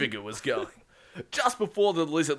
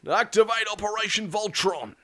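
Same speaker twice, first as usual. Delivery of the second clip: high-pitched, sustained command; 7 semitones higher, 3 dB louder than usual. Acted. Captain ordering the ship's voice control, high commanding tone. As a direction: call it out to the ship's computer.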